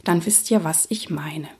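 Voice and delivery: low creaky vocal fry voice. Shown as a demonstration. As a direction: let the voice crackle in vocal fry. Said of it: "Ich mache es euch einmal vor".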